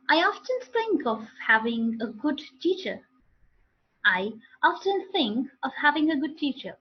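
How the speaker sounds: often with an open "ah" in the model sentence; often modelled with opened O; correct pronunciation. Shown as a demonstration. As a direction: say often as "ahf-ten", carefully. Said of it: "What are the correct pronunciations then?".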